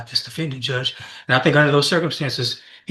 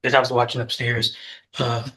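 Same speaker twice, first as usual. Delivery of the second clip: winded from the stairs; talking while catching breath. Real, not acted. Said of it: "I'm out of breath because I took the stairs down".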